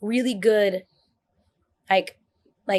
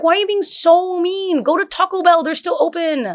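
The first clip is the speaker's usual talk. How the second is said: imitating herself being rude in line; mock snooty scold; 9 semitones higher, 3 dB louder than usual. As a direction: brush them off toward Taco Bell. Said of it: "I'm like".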